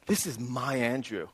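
"my" leaned on in a quiet introduction; stress on MY. Acted. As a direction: claim him with a weighted "my". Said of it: "my," and you describe to someone like that".

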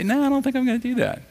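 high, quick brush-off; hurried, high-pitched mock reluctance; mock refusal. Imagined refusal of God's command.

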